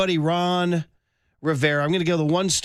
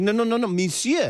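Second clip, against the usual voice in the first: higher-pitched correcting "No, no, no"; mock French teacher; 5 semitones higher than usual. French teacher correcting a student at his desk, mock insistence. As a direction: imitate a teacher correcting over and over. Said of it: "she was like".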